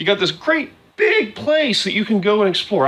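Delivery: voice cracks mid-sentence, breaking high. Talking to an audience about a game, voice cracking. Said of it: "I apologize about my voice cracking".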